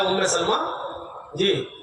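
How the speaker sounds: a hint of a calm, mild request to his wife; gentle prophet voice. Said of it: "अल्लाह के नबी ने फरमाया".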